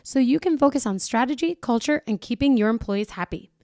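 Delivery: polished podcast sponsor read. Acted. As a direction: sell it in an upbeat, even announcer flow. Reads a sponsor ad.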